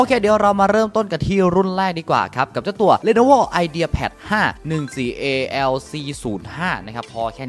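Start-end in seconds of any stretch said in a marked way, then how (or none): 2.6-5.0 slow, loud, high product reveal; hype product intro. Real, not acted. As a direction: announce the model with a big build-up. Announcing first laptop model. (ประกาศชื่อรุ่นอย่างตื่นเต้น)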